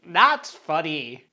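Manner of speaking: slowly, as a prim sober self; drawn-out disapproving inner voice. Retold or imitated. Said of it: "Sober Me's like".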